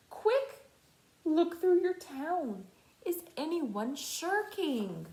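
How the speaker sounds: urgent. A narrator's reading. Urgent command.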